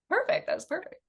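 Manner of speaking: high, bright giddy exclamation; delighted. Retold or imitated. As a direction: squeal it with glee. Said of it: "So I was like".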